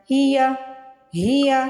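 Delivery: हिया said short and unstretched; short hiya. Shown as a demonstration. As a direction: keep हिया quick, no lengthening. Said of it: "इसको कहीं से भी आपने नहीं खींचना". (हिया छोटा पढ़ें)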